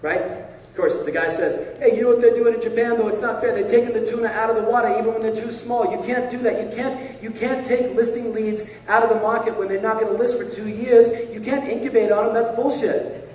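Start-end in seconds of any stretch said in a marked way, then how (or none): 1.8-13.2 put-on high, loud, indignant Boston accent; Boston-accented tirade, pitched up. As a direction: rant like an outraged Boston fisherman, in the accent. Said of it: "Back to the tuna guy in Boston".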